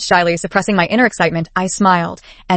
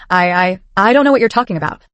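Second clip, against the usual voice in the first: stumbling, hesitant start; nervous stammer. Acted. Scared girl answering her kidnapper, nervous stammer. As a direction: trip over the first words in fright. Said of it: "She stammered nervously".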